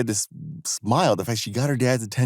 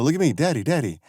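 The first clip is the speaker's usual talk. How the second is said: high-pitched imitation of a child calling; mock yell for attention, pitched up; retold yell; 8 semitones higher, faster than usual. Little girl wanting her dad to watch, mock yell. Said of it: "and she yells".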